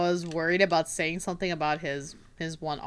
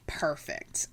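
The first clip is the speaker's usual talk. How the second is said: whispered praise; 4 semitones lower, 9 dB quieter than usual. Retold or imitated. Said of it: "and he was like".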